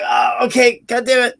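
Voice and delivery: high, loud, whiny give-in; hammed-up grumbling holler; mock grudging shout. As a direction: yell it like a kid finally giving up. Friend gives in, gets up.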